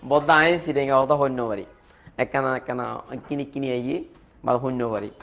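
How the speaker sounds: casual demo of Chittagonian Bengali; Chittagonian dialect. Shown as a demonstration. Teacher showing students chemistry taught in Chittagonian, Chittagonian accent. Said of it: "চাটগাইয়া ভাষায়".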